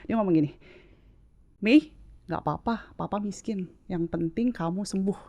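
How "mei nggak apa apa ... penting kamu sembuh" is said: understated tearful comfort, with pauses; tearful reassurance. Retold or imitated. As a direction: gently imitate a tearful dad reassuring his child. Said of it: "sambil nangis gitu".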